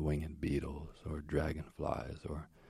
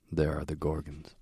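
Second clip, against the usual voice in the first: ordinary delivery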